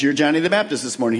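ordinary talk, nothing marked

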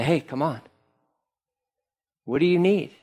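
soft, unhurried retold invitation; gentle invitation. Preacher voicing Jesus stopping for him, gently inviting. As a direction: offer help softly, with pauses to let it land.

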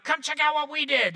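mock excited child voice; excited kid. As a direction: bubble over like a thrilled kid. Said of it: "They're all excited".

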